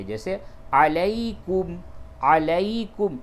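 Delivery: علیکم with the ya said softly and gently, slow; soft ya leen. Shown as a demonstration. Teacher showing the ya leen in علیکم, soft and slow. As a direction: soften the ya in علیکم, let it glide. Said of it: "نرمی کے ساتھ اس یا کو ادا کریں گے".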